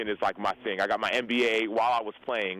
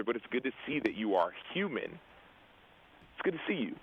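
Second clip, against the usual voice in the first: mildly tender retold reassurance, trailing softer; 6 dB quieter than usual. Buddy reassuring a crying teammate, mildly tender. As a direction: let the imitated friend's words fall soft.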